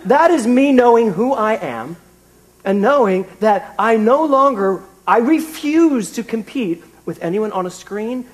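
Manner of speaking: slow, emphatic, triumphant declaration; a slow, pulpit-style proud proclamation. Retold or imitated. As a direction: proclaim each word slowly like a victory. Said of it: "I thought".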